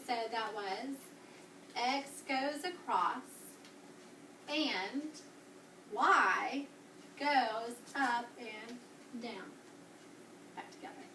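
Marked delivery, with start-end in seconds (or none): 1.7-9.5 slow, drawn-out chanted cheer; slow cheer demo. Shown as a demonstration. Teacher slowly modelling the cheer for her class. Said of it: "I'm gonna go ahead and do a little cheer with you". 10.5-11.0 whispered classroom cue. Real, not acted. Teacher quietly whispering instructions to seated students. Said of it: "Stand up very quiet".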